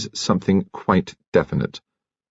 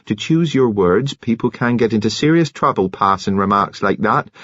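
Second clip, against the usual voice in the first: quavering; 2 semitones higher than usual. Acted. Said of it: "Nurse Kettle quavered".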